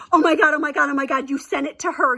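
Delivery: loud, high "oh my God" in mock horror; she's freaking out, relayed; imitated panic. Friend sees the sent email.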